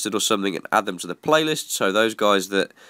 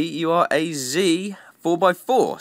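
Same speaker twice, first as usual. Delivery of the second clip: slow mock voice; 6 semitones higher, slower than usual. Slowed joke punchline voice.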